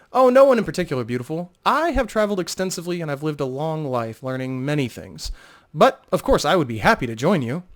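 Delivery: the charmer leaning in with a compliment; flirting minstrel. Acted. Talon flirting with lingering Vo, charming minstrel voice.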